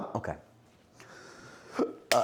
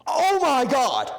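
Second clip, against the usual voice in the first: high, loud drawn-out wail; shocked cry; 14 semitones higher, 7 dB louder, slower than usual. Real, not acted. Streamer spilling pickle juice, shocked cry. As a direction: cry out long and high in dismay.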